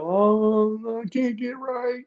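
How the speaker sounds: hammed-up fake crying; fake crocodile tears. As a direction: whimper it like a put-on sob story. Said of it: "this is when the crocodile tears come out".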